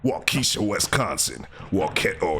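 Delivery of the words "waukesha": "Waukesha" with KEE in the middle; mispronounced Waukesha. Real, not acted. Host misreading a Wisconsin town name, "Waukesha" as waw-KEE-sha. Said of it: "Don't say Waukesha".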